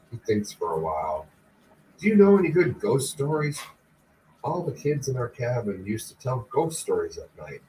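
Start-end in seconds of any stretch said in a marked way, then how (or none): 2.0-7.6 a hint of an eager boy, pitched higher; lightly voiced eager son. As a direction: lightly play the curious son asking his father. Voices young son Chris.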